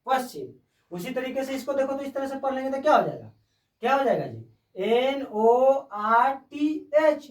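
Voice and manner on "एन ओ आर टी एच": spelled out slowly. Shown as a demonstration. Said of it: "नॉर्थ".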